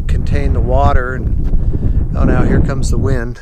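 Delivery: gusty wind blasting the microphone; wind on mic. Real, not acted. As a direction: wind roaring over the mic. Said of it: "Sorry about the wind noise".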